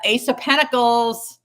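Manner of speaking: Ace of Pentacles called out high, loud and slow; excited card call. Real, not acted. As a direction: announce the card like a win. Card announced, then repeated.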